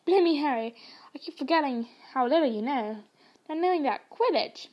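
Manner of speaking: lightly voiced big friendly giant; a hint of hearty Hagrid. Hagrid chiding Harry, lightly hearty giant voice.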